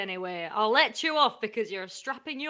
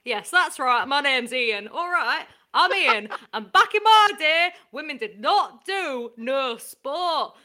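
grumpy boomer. Acted. Sports reporter grumbling to the studio about today's youth, mild boomer voice. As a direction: grumble like a lightly played old boomer. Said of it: "a boomer reflecting on the good old days".

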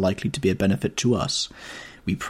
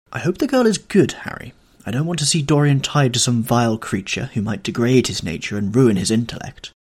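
a hint of an earnest young painter, a little raised; Basil the artist, lightly voiced and a touch higher; 4 semitones higher, 3 dB louder than usual. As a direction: voice Basil, eager and slightly lifted.

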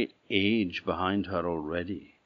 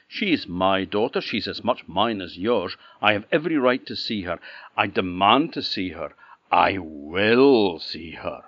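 insistent king; 6 dB louder than usual. Acted. King insists on his right.

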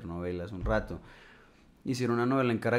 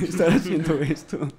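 laughing; 6 semitones higher, 8 dB louder than usual. Real, not acted. Laughs recalling getting paid.

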